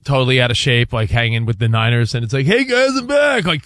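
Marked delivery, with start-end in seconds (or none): 2.4-3.5 slow, lightly voiced AI player; a hint of a goofy AI clip voice; AI Deebo voice. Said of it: "you see the A Is of Deebo".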